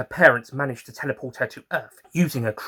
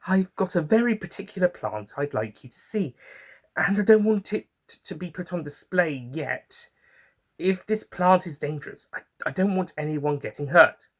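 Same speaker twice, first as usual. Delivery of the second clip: Scarlet's worried voice; 7 semitones higher than usual. Acted.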